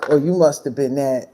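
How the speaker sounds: sarcastic imitation of commenters; mocking commenters. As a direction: parrot their condescending line. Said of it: "get on here and say".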